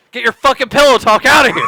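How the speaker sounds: fast, loud fake outrage; mock outraged shout. Real, not acted. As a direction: shout it out in play.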